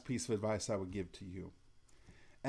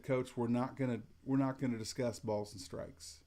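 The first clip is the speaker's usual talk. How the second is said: calm but firm. Shown as a demonstration. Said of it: "And I said it about like that".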